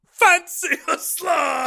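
high, slow shouted catchphrase; Essex accent. Retold or imitated. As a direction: imitate her Essex catchphrase, drawn out. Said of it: "your beautiful, amazing catchphrase".

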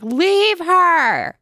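a sudden high, loud hammed-up yell; mock shout. Jean yelling at Maggie to abandon Katie, hammed-up shout. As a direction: bark it out like a cartoon villain. Jean's line in mocked scene.

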